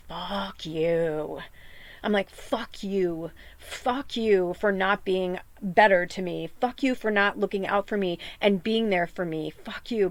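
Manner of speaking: soft seething curse at a bully; quiet bitter curse. Retold or imitated. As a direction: spit it quietly through held anger. Telling off lifelong bully.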